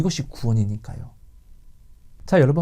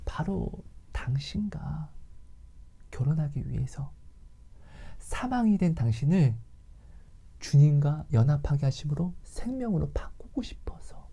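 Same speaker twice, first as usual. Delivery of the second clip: soft, half-whispered plea; hushed preaching; 8 dB quieter than usual. Real, not acted. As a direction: lean in and whisper the reason. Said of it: "preacher drops to intimate hush".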